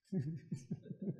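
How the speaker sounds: soft mock sobbing; imitated crying. Husband weeping to God in secret, imitated crying. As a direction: sob quietly, as if acting it out.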